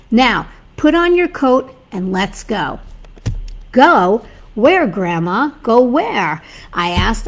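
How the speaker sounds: steady, measured storytelling read; story reading. Acted. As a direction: read the tale to your audience.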